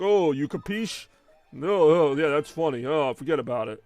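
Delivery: put-on stereotypical Italian mobster accent. Mimicking Sopranos characters' stereotyped talk, mock Italian accent. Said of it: "Italians don't talk like that".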